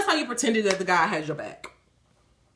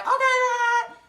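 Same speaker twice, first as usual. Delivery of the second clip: mock prayer and reply; 8 semitones higher than usual. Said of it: "and then also be like".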